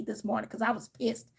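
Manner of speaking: breathy confiding aside; a quick whispered aside. Real, not acted. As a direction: drop it to a whisper.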